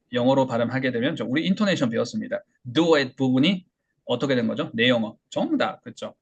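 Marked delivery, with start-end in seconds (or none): none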